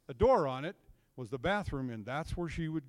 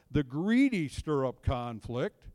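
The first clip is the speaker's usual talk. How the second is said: scripture reading; 2 semitones lower, 3 dB louder, slower than usual. Acted. Reading Proverbs aloud.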